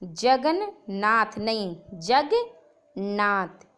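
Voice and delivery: जगन्नाथ said slowly with the half न; slow contrast. Shown as a demonstration. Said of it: "जगन्नाथ में ना पूरा नहीं रहेगा". (जगन्नाथ धीरे, आधे न के साथ)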